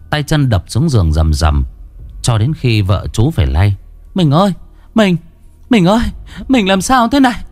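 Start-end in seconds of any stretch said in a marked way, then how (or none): 4.1-7.4 higher, urgent anxious calls; worried calling. A narrator's reading. Wife shaking her husband out of a nightmare, anxious calling. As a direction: wake him in alarm.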